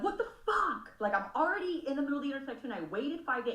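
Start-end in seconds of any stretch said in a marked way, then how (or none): 0.0-0.9 high-pitched disbelieving swear; incredulous curse. Retold or imitated. Stuck mid-intersection at reckless drivers, incredulous high curse. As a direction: throw it out in disbelief. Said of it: "there's times I'm like".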